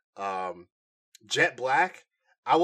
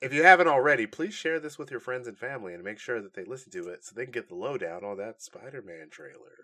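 sultry voice; faster than usual. Pretend. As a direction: purr it like a perfume ad. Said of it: "I used my sultry voice for that one".

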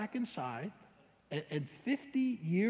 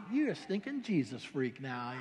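laughing mockery; 5 semitones lower, 4 dB quieter than usual. Friend mocks him, laughing.

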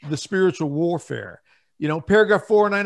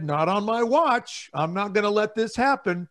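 David's defiance; 4 semitones higher than usual. Retold or imitated. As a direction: voice David's resolve, pitched up. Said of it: "he said".

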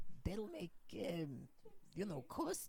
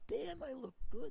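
laughing; 6 semitones higher, 3 dB louder than usual. Real, not acted. Admiring new disguised face.

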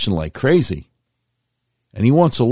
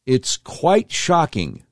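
slow emphasis; 5 semitones higher, much slower than usual. Real, not acted. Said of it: "slow emphatic repetition".

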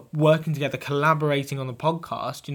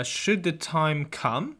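ominous reading; much slower than usual. Pretend. Reading a note written in blood.

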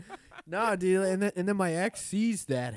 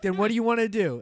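loud, higher mock confrontation; raised-voice retort from a retold quarrel; imitated angry demand; 6 semitones higher, 7 dB louder, faster than usual. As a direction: imitate an angry driver snapping back.

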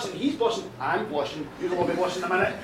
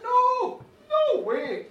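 high, loud shocked refusal; acted adamant no; emphatic denial; 10 semitones higher, 5 dB louder, much slower than usual. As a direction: deny it outright, pitched up.

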